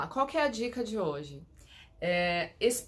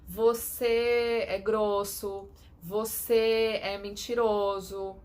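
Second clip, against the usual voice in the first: mock accusation; 4 dB louder, slower than usual. Shown as a demonstration. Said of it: "Então, assim".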